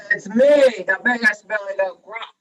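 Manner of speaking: very loud, bold billy goat; booming storybook goat announcement; big goat's shout. A narrator's reading. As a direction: shout back at the troll. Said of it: "shouted the billy goat in a voice almost as loud".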